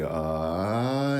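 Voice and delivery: "uh" gliding upward. Shown as a demonstration. Coach bringing his pitch up, rising held "uh". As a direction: slide a long "uh" up toward the nose. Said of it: "bring my pitch up".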